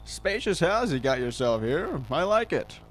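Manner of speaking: slow, oily creepy visitor. Acted. Visitor admiring the homeowner's house, slow creepy charm. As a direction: sound like you're sizing up the house.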